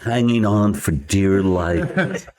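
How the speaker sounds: lightly voiced epic trailer voice; road-trip self-narration done as mock trailer; mock dramatic narrator. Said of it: "doing this stream of consciousness".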